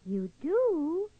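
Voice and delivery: surprised. Acted. Louis surprised and delighted.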